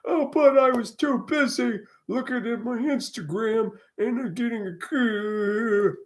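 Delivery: high, loud airhead whine; mocking airhead voice. Mocking people glued to Instagram, high airhead whine. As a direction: parody someone too busy scrolling to notice.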